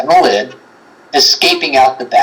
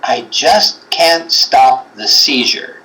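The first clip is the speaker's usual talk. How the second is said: slow imitation; much slower than usual. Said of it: "And then the voice goes".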